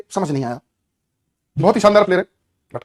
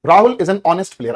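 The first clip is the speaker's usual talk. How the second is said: slow dictation; 5 dB louder, much slower than usual. Shown as a demonstration. Dictating sentence to class.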